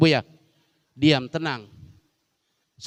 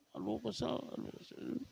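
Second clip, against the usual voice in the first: mock fretting; 8 semitones higher, 17 dB quieter than usual. Acting an annoyed wife.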